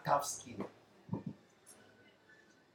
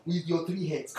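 laughing mimic; 5 dB quieter than usual. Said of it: "He told us".

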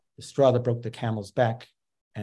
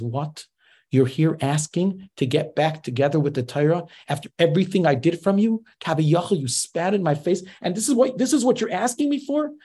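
indignant rebuke; 5 semitones higher than usual. Retold or imitated. God rebuking the unfaithful people.

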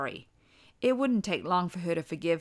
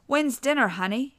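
put-on high child voice; 7 semitones higher, 5 dB louder than usual. A narrator's reading. Father asks wife in child voice.

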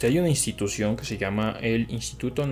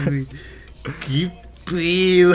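laughing; 5 semitones higher, 5 dB louder than usual. Real, not acted. Laughing at the nickname.

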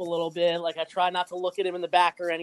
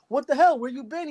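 higher mock phone chatter; imitating the passenger; 8 semitones higher than usual. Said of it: "He's like".

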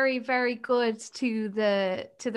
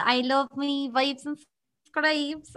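put-on Cork accent; slower than usual. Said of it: "way more gnarly".

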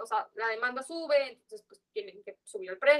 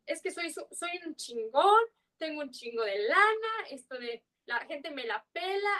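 higher, slow, smug braggart voice; mock arrogant chilango; 3 semitones higher than usual. Mimicking cocky chilangos who come to Mérida, slow and higher. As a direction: play a show-off who thinks he owns the place. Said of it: "siempre vienen con ese aire de".

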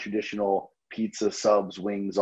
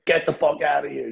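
incredulous; 7 semitones higher than usual. Retold or imitated. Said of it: "And I'll say".

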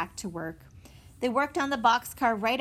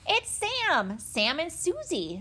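high-pitched delighted announcement; excited; 8 semitones higher, slower than usual. A narrator's reading. Benny spots Sam and Susie coming, excited. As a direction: call it out with rising excitement, stretching the names. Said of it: "said Benny excitedly".

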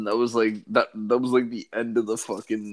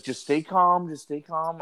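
higher-pitched imitation of urgent soothing; mock reassurance; 6 semitones higher than usual. Helpline lady to frightened kid, imitated reassurance. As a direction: play a worried helpline lady calming a caller.

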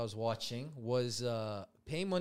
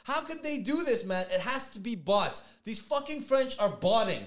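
imitated accusing rant, pitched up; indignant streamer; 5 semitones higher, 3 dB louder than usual. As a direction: protest in mock disbelief to the viewers. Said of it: "he's talking to his audience".

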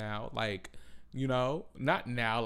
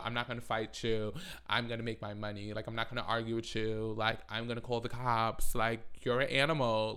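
bougie dismissive voice; 4 dB quieter than usual. Retold or imitated. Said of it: "the high Sadiddy, I shop at Chanel".

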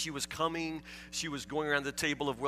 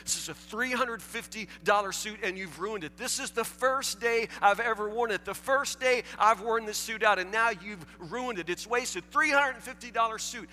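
louder, higher, indignant rant; mock angry yelling; 7 semitones higher, 4 dB louder than usual. A preacher retelling a customer yelling at a waitress, mock furious. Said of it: "He's yelling".

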